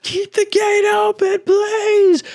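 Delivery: high, loud, pleading shout; panicked peasants screaming to keep the gate open; desperate peasant cries. Acted. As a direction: beg them not to shut the gate. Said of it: "you hear peasants from the other side".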